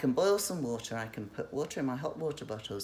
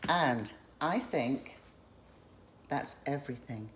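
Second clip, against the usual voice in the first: slow, breathless, winded words; out of breath. Real, not acted. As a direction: speak between tired breaths. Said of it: "I'm out of breath".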